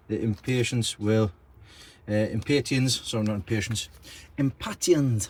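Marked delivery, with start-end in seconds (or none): 2.1-3.0 impatiens said im-PAY-tee-enz; alternative pronunciation. Real, not acted. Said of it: "however you pronounce it". 4.4-5.3 impatiens said im-PAT-ee-enz; alternative pronunciation. Real, not acted. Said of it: "however you pronounce it".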